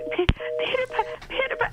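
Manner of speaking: imitated high, tearful stammer; tearful stutter. Tormented stuttering girl attempts the club password, tearful stutter. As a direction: stammer it out as if sobbing. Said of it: "tears streaming down her face".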